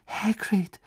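put-on high, astonished girl's question; completely baffled. A narrator's reading. Hermine finds Hagrid sobbing, completely baffled. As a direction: ask in high-pitched bewilderment. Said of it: "fragte Hermine vollkommen baff".

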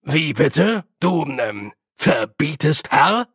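empört. Acted. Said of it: "mit plötzlicher Entrüstung".

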